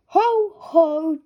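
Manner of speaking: a warm daddy chuckle; father chuckling. Acted. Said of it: "chuckles Daddy Pig".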